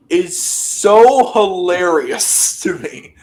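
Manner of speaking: cracking up while explaining the joke; laughing. Real, not acted. Host laughing to friends about a long match, laughing.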